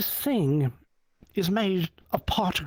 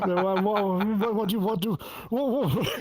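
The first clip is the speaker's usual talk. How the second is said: stammering, mildly flustered retort, rising higher; 3 semitones higher than usual. Retold or imitated. Robot builder baffled by rival's plea, flustered. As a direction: trip over the words in mock bewilderment.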